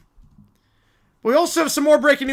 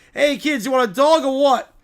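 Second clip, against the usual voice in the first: hot dog vendor; 3 semitones higher, 6 dB louder than usual. Acted. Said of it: "A hot dog vendor leans over".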